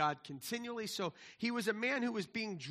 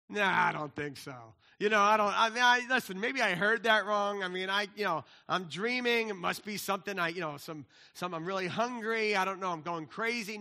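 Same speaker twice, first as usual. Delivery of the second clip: louder, fumbling, flustered disbelief; Peter doubting himself; 6 dB louder than usual. Retold or imitated. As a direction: act out Peter brushing off the vision, a bit too loud. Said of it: "Peter's like".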